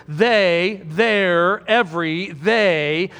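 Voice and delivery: THEY, THEIR, EVERY, THEY each set apart with weight; emphatic listing. Shown as a demonstration. Preacher recaps the underlined words for the congregation, THEY, THEIR, EVERY stressed. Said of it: "why are we emphasizing the they".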